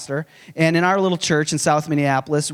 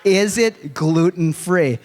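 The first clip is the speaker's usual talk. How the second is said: pressing question; 3 semitones higher, much slower than usual. Retold or imitated. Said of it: "He asks".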